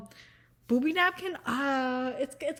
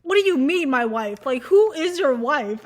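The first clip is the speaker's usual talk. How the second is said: incredulous; 7 dB louder than usual. Retold or imitated. To Geoffrey about his wife, loud mock disbelief. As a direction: demand it in mock shock. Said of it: "It's just like".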